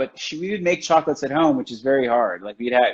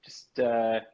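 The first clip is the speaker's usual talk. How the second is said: calm reassurance; 3 semitones lower than usual. Retold or imitated. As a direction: soothe a panicking apprentice. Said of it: "It was always just calm".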